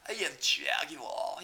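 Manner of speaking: slow, drawn-out British snob; mock-posh British, stretching Jaguar; British impression. Mocking dumbasses in Britain showing off, slow British accent. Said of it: "dumbasses in Britain".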